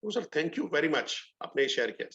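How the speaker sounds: slow, sweet thank-you to a heckler; lovingly. Retold or imitated. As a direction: disarm him with kindness, slowly. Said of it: "मैंने बड़े प्यार से बोला". (बड़े प्यार से, धीरे-धीरे धन्यवाद)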